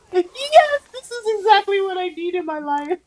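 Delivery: high-pitched, gleeful squeal; retold delight. Podcaster recalls the bear bit to co-host, gleefully squealing.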